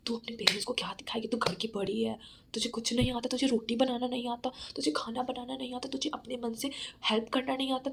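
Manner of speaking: a dark voice in her head, whispered at the start; half-whispered inner critic, taunting; mild whispering self-doubt voice. Retold or imitated. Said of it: "काला जादू आ जाता है, टन सा करता है".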